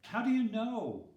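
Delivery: high, loud, burning to know; eager question. Acted. Curious child asking his teacher, high and loud. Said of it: "Thomas often asked".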